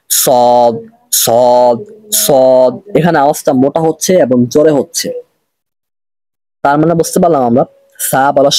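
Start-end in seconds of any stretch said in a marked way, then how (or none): 0.1-2.7 সদ with a heavy, forceful s; thick sad. Shown as a demonstration. Teacher showing students the thick সদ. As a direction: say সদ full and strong. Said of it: "এটা মোটা করে হবে".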